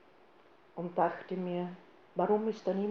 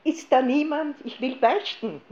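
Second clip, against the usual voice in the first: loud, higher, impatient demand to be heard; annoyed demand; 6 semitones higher, 6 dB louder than usual. Retold or imitated. Impatient churchgoer demanding confession, loud and annoyed. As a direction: snap at the stranger as if owed a priest. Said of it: "ich stürzte ärgerlich auf ihn zu".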